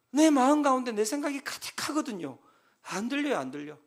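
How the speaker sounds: ordinary talk, nothing marked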